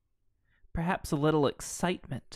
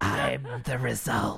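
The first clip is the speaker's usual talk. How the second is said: dramatic reveal; 4 semitones lower, slower than usual. Acted.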